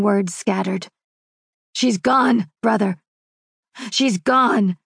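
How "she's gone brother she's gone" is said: shattered grief. Acted. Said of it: "his tone shattered, broken words".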